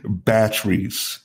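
"Batteries" drawn out slowly; slow repeat. Real, not acted. Repeating for a puzzled co-host, "Batteries" said slowly. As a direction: say "Batteries" slowly for someone who missed it. Asked to say it again.

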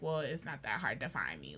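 whispered reply. Retold or imitated. Whispering what she texted back to the guy. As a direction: hush it like a coy reply. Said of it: "I wasn't saying it like that".

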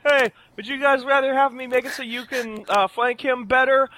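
calling out across the battlefield; loud, high shout to a teammate. Acted. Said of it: "I shout this to Aludra".

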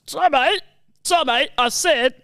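lightly voiced London gangster impression; Alfie. Demonstrating Alfie to a critic, attempted gangster impression. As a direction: give halting gangster orders, a little off-target. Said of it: "to Alfie".

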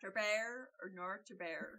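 mock Aussie accent, laughing; a bad Australian Shakespeare line. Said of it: "That's my Australian impression".

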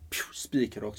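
breathy whisper. Real, not acted. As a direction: drop to a whisper on spikrakt. Emphatic image of straight path. (viskat, nästan tonlöst)

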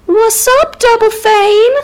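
high, whooping bro salute; hyped-up greeting. Acted. Buddies congratulating Macbeth on title, high hyped cheer. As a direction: hail them in a high, excited voice.

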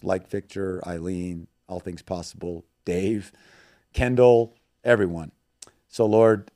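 earnest prayer, measured pace; spoken prayer. Acted. Guest praying for listeners at the host's request, earnest prayer voice. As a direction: pray sincerely for the listeners.

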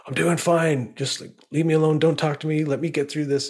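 a curt, irritated brush-off to his wife; sharp and curt. Retold or imitated. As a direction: shut her down impatiently, in a rush. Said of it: "why I spoke so sharply".

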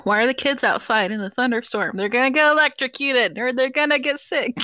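put-on old grandma voice; quavery old Jewish grandma; old person voice. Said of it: "What is that voice?".

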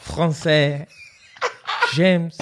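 throaty French pronunciation; French accent. Acted. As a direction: practise a French accent on the word.

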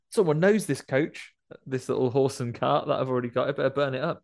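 a hint of a scheming cowboy; mock Jesse Hooker. Jesse deciding to torch his cart, lightly voiced. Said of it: "he's like".

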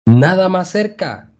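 high, loud urging call; man on the bank shouting to Frank. A narrator's reading. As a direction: urge him closer. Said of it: "gritó el hombre".

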